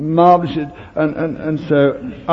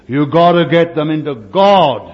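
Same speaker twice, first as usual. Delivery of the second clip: louder preaching version of a whisper; shouted for the crowd; 3 semitones higher, 4 dB louder than usual. Shown as a demonstration. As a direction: shout it to the congregation. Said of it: "I didn't shout it like that. I whispered it".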